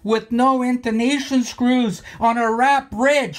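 worked-up demand for an opinion; defiant challenge. Real, not acted. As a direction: throw down a triumphant challenge. Challenging Rick with his result.

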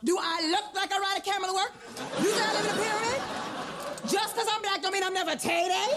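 quick, offended rhetorical questions; indignant challenge. Acted. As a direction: throw each question at him, insulted. Offended customer challenges clerk.

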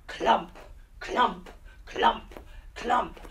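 clumping steps. Acted. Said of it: "he clumps through the mud".

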